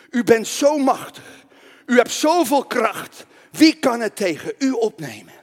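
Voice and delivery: emphatic slow prayer. Acted. Declaims king's prayer.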